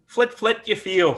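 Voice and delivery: high, mocking bird call. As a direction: sing it out like a taunting bird. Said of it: "and laughs".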